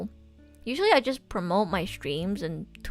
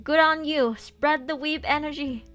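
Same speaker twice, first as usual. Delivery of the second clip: cheering; 6 semitones higher, 3 dB louder than usual. Real, not acted. Cheering a chat viewer on.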